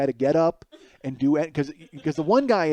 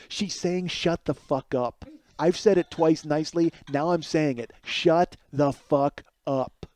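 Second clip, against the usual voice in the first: quiet threat, each word pressed out slowly; through clenched teeth; slower than usual. Retold or imitated. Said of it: "quiet and saying it through clenched teeth".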